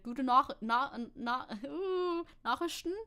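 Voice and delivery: hesitant, fumbled Saxon accent; amateur Saxony accent, groping for the sounds; Saxony accent attempt. Shown as a demonstration. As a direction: have a clumsy go at a Saxon accent. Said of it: "try to read this with a Saxony accent".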